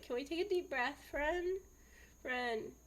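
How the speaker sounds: imitating a high, coaxing teacher voice; gentle teacher. Teacher to crying kindergartner, gentle coaxing.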